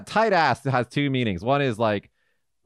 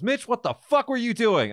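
much higher-pitched mock outburst; imitated angry boss; 11 semitones higher, 3 dB louder than usual. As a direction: chew out an employee, acted out. Retelling boss swearing at him.

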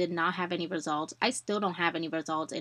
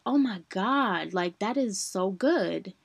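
slow, emphatic amazement, stretching the words; wowed, slow reliving of the moment; retold awe; slower than usual. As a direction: savour it, drawn out in admiration. Retold reaction to pastor's message.

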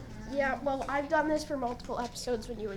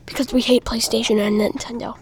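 loud declaration; 8 dB louder than usual. Pretend.

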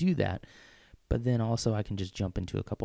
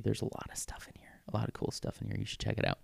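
whispering; 5 dB quieter, faster than usual. Real, not acted. Teasing about the room's contents.

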